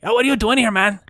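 casual stoner questioning; stoner crayfish guard. Acted.

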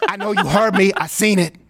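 talking into a tube; calling through a tube; paper cone megaphone. Retold or imitated. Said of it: "He's talking into the tube".

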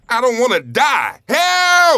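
high, loud terrified plea; desperate shout rising to a shriek; yelling in panic. Acted. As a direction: scream for your life. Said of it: "Stop yelling".

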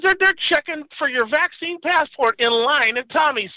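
mock disbelief, slowed; incredulous friend. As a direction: spell out the absurdity.

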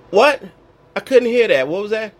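loud, high mock "what?"; mock disbelief. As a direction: pretend you didn't catch it. Pretending not to hear.

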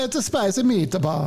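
put-on Italian accent. Capping the Italian bit with a hammed-up Italian accent. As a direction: toss it off like a pizza ad. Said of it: "in an Italian accent".

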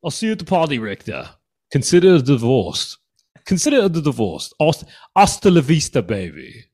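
high mock-English action star; comic accented strongman; Arnold Schwarzenegger. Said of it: "Schwarzenegger with an English accent".

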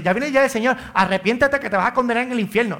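hint of a threatening street preacher; mock hellfire preacher. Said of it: "No dice así".

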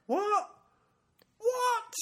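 high baffled double take; baffled what. Retold or imitated. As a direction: squeak out confused disbelief. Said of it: "you're just like".

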